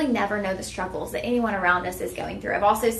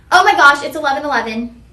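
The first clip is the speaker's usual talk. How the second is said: sudden loud burst of surprise; real gasp of surprise at the clock; startled loud oh my gosh; surprised; 4 semitones higher, 11 dB louder than usual. Real, not acted. Noticing the clock hit 11:11.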